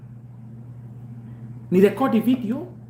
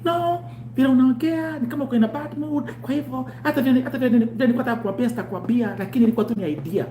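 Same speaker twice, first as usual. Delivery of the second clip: higher, quick, defensive woman; caller voice; 5 semitones higher, faster than usual. Retold or imitated. Imitating the caller backing off, a little higher and fast. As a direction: rattle it off defensively, pitched up. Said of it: "acted caller reply".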